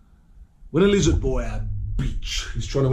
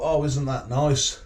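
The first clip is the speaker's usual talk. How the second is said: pleased surprise; 3 semitones higher than usual. Retold or imitated. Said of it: "Now I thought".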